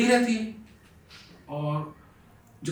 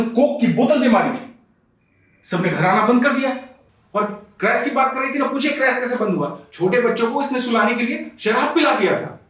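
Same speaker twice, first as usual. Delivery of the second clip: heated, raised-pitch complaint; indignant accusation; 4 semitones higher than usual. Acted. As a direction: pile up accusations to the doctor. Husband counter-accuses wife before doctor. (गुस्से भरी शिकायत)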